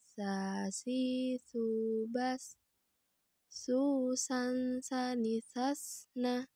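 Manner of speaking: lafalkan "sa, si, su" tipis dengan desis; contoh lafal huruf sin. Shown as a demonstration. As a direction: bunyi sin yang tipis dan mendesis. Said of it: "Perhatikan latihan berikut ini". (lafal sin tipis)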